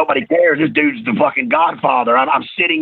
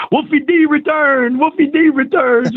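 higher, slow hyped announcer call; 10 semitones higher than usual. Retold or imitated. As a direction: hype it like a TV promo. Quoting the TV announcement aloud.

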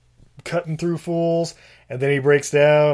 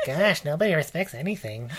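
Woody Allen; 7 dB quieter than usual. Retold or imitated. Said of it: "the Woody Allen of this movie".

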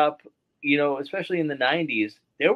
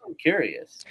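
whisper; 3 semitones lower than usual. Real, not acted. Unvoiced whisper aside.

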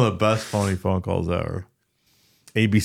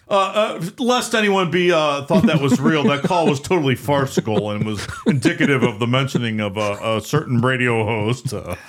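sportscaster voice; 5 semitones higher than usual. Retold or imitated. Imitating Al Michaels again.

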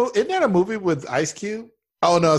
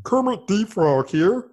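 Kermit the Frog voice; 3 semitones higher, slower than usual. Retold or imitated. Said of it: "we all do that".

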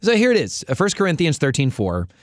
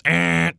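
wrong buzzer sound; 2 semitones higher than usual. Pretend. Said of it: "I'm gonna do a wrong buzzer sound".

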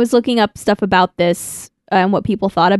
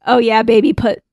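sexy voice. Pretend. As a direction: purr it like a bad flirt. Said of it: "pretend I'm putting on a sexy voice".

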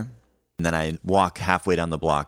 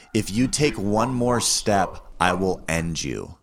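menacing threat; slower than usual. Retold or imitated. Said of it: "a very angry and assertive way".

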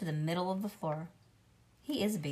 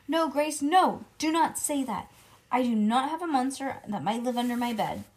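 higher, louder frightened no; alarmed protest; 4 semitones higher, 5 dB louder than usual. Acted. Junie B. begging Grace not to say it, loud and scared. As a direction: push the scary idea away.

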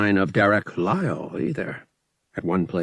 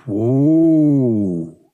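loud, drawn-out whoa of astonishment; amazed whoa; 5 semitones higher, 9 dB louder than usual. Acted. Lyle hearing about a hundred vials, amazed. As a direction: let it out like a whistle. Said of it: "whistled in amazement".

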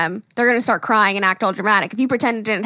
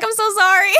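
mock apology; 11 semitones higher, 4 dB louder than usual. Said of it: "I'm like".

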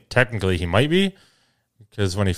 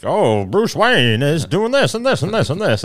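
high bored storybook recap; mocking flat narration; 7 semitones higher than usual. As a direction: rattle it off like a dull summary. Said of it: "It's them actually acting it out".

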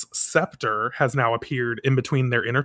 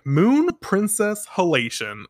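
higher, drawn-out heroine's attack cry; attack call; 6 semitones higher, slower than usual. Retold or imitated. Usagi points the moon rod at Cohen, retold slow attack call. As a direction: call out the attack name slowly, pitched up.

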